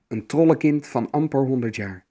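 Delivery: ordinary delivery, nothing marked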